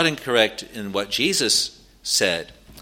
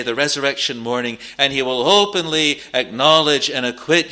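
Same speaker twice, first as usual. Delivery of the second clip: raised, ringing pulpit delivery; fervent preaching; 3 semitones higher than usual. Real, not acted. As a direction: preach the promise with rising fervour.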